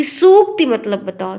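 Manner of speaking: सूक्ति begun with a plain "s"; s sound, long u. Acted. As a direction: quiz with सूक्ति drawn out on a long oo. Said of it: "ये कोई कहे कि".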